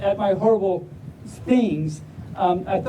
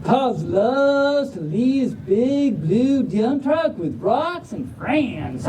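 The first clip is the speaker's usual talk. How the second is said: slow, stretched Southern storytelling; Southern drawl; slower than usual. Acted. Reader introducing pups learning to drive, slow Southern drawl. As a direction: draw out the vowels like a Southerner. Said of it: "but in a Southern drawl".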